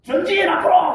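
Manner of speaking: high, loud battle command; commanding officer yelling forward; commander's order. Retold or imitated. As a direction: shout the order to advance. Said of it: "전쟁이 일어났을 때".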